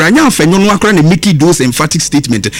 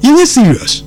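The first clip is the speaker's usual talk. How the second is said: higher-pitched, exasperated scolding; real exasperation, pitched up; indignant rebuke; 6 semitones higher than usual. Real, not acted. Indignant rebuke of political opponents.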